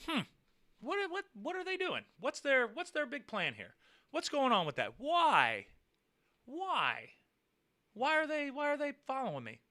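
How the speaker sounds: retold bewilderment, pitch lifted on each question; baffled questioning. Driver wondering why he is being followed, baffled.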